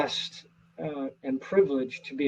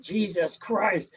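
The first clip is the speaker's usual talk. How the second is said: mild retold blurt; 4 semitones higher, much slower than usual. Retelling the theatergoer's blurt, mild mock exclamation. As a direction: lightly recall the outburst. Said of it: "he just blurted it out".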